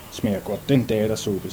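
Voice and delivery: boy on the chimney pipe, softly mocking; sly hidden mockery. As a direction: taunt quietly from up the chimney.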